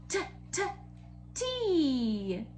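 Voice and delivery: "T" as a crisp unvoiced t; letter sound t. Shown as a demonstration. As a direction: tap out "T" as a short t. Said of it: "Can you guys make that sound there?".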